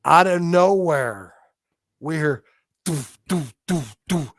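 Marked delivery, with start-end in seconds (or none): 2.8-4.3 heavy footfall thuds. Retold or imitated. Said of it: "it sounded like a".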